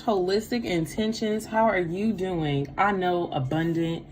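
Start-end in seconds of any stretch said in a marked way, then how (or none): none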